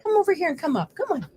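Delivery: high, falling little calls; coaxing pet-talk. Real, not acted. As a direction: coax the dog over in a lifted voice. Coaxing her dog over.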